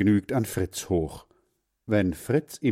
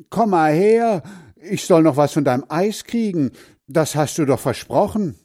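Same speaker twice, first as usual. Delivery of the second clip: high, loud indignant call; 8 semitones higher, 6 dB louder than usual. Acted. Hans Frieder calling after the girl about the ice, loud. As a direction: yell after her that she promised. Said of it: "ruft Hans Frieder".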